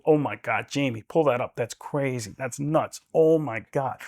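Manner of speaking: lightly voiced podcast amazement; a hint of a stunned podcaster; Joe Rogan impression. Shown as a demonstration. Doing Joe Rogan asking Jamie to pull it up. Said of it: "it becomes Joe Rogan".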